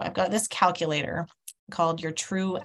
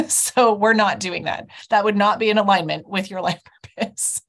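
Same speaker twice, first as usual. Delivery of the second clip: retold laughing; 4 dB louder than usual. Stylist's verdict retold, laughing.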